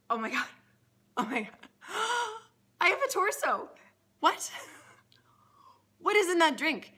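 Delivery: Bill gasping with astonishment at his new torso; amazed shout. Acted. The talking head shrieks at the bartender, amazed and overjoyed. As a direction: voice jumping high and loud in disbelief.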